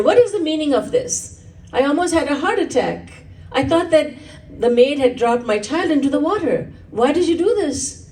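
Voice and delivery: a hint of an indignant king scolding; upset king. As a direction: demand an explanation, shaken. King confronts the minister.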